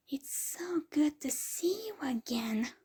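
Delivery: delighted welcoming cry; happy exclaim. A narrator's reading. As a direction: beam at the long-lost nephew. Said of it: "she exclaimed".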